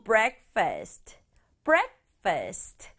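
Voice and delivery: breakfast stressed on the first beat, a said as 에; two beats, punch the front of breakfast. Shown as a demonstration. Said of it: "강조는 앞에 breakfast 두 박자". (breakfast 앞에 강조 두 박자로)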